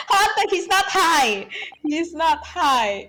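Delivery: reading the character's defense with a touch of put-on voice; voicing a game character. Partner voicing the assistant, insisting the client isn't high.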